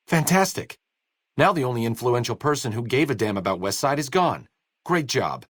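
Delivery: dry, mocking praise; sarcastic. Doctor sarcastically congratulating the courier on a disaster. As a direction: praise them while meaning the opposite. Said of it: "In case I'm not laying down enough sarcasm".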